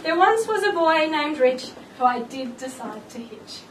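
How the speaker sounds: a light sing-song rhyme read with giggles; bride-to-be reads her jokey poem to guests, lightly sing-song; rhyming poem recital. Acted. Reading her engagement poem to friends, amused. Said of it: "one more very average rhyme".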